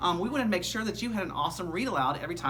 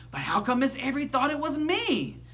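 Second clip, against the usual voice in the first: put-on girl voice; 8 semitones higher than usual. A narrator's reading. Janet voiced asking Nick.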